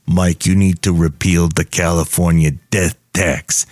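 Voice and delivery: low mock ad voice; lightly voiced pitchman. Character lecturing Mike about the death tax, mock pitch.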